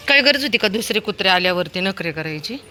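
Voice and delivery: longer, milder, rising telling-off. Real, not acted. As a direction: lecture the dog with a rising question. Owner scolds dog after walk.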